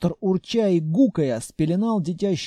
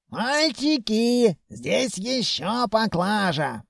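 put-on old man calling out; 5 semitones higher, slower than usual. A narrator's reading. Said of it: "заорал".

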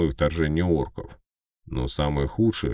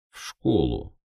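grumbling. Acted. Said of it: "буркнул я".

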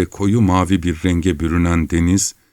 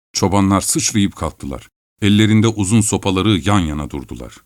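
plain reading voice

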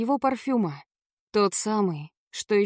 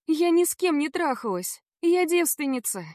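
put-on pleading girl; 7 semitones higher than usual. A narrator's reading. Heroine pleads with Savva.

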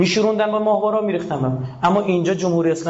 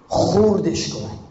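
ordinary delivery

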